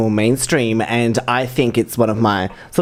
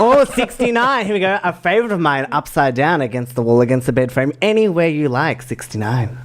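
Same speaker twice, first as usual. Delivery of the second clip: bingo caller; 4 semitones higher than usual. Shown as a demonstration. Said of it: "I'll give you a bingo test then".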